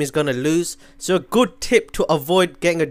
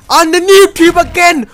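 much higher, loud outraged yell; furious shout; 12 semitones higher, 10 dB louder, slower than usual. Real, not acted. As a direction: shout out in disbelief. Killed again by grenade.

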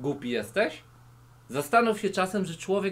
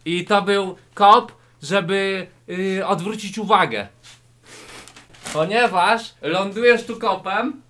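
loud demo; 3 semitones higher, 8 dB louder than usual. Acted. Shouted martial arts demo.

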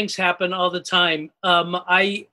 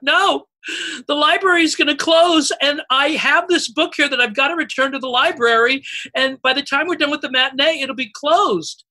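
put-on higher, pleading child; panicky kid voice; 5 semitones higher than usual. A kid in the company tells her, mock panicked child voice. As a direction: play the frantic kid, up high.

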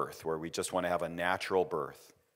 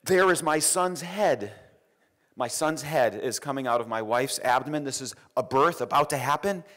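amazed; 5 semitones higher, 3 dB louder than usual. Retold or imitated. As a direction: let the wonder lift the voice. Shock at seeing the birth.

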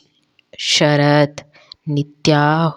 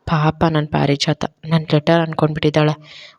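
softened. Acted. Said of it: "soft ಆಗ್ಬಿಟ್ಟ".

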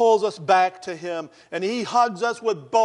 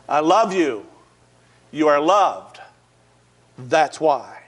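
louder, insistent repeat; firm reassurance; 3 dB louder, slower than usual. Retold or imitated. Officer hugging the man repeats it, louder and firmer. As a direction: lean in and make him believe it. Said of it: "Eric Nuttall said".

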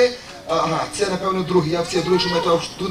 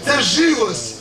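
solemn sermon address, lower and steady; preaching; 3 semitones lower than usual. Acted. Preacher addressing the congregation, solemn sermon tone. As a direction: proclaim it to the brothers and sisters.

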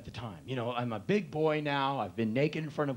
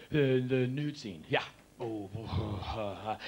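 slow, hushed nervous stammer; hushed jittery mumbling before the nude scene; nervous intensity; 3 semitones lower, slower than usual. Retold or imitated. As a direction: psych yourself up, uneasy. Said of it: "I got all intense".

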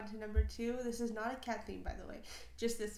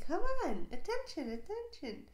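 higher, much louder demanding cat, fading at the end; bossy cat voice; 7 semitones higher, 7 dB louder than usual. Retold or imitated. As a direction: play a pushy cat calling for attention. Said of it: "Cat's like".

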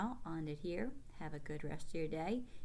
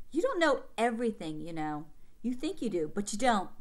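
mild angry retort; 4 dB louder than usual. Acted. Boy arguing with sister.

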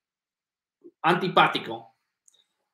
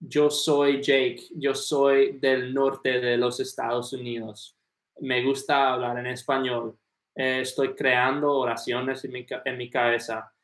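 slow practice sentences; 3 semitones lower than usual. Retold or imitated. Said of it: "I would just say".

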